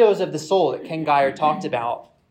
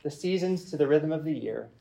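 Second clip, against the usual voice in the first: solemn reading. Acted. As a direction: read it like sacred prose, unhurried. Reads a reverent literary passage.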